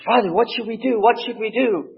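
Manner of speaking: high, pleading question; anxious young priest. Retold or imitated. Young priest asking the old priest what to do, high and anxious. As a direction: beg for instructions. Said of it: "the young priest says".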